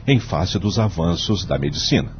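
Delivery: measured, solemn judge delivering his vote; formal court speech. Acted. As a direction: argue the case gravely before the court.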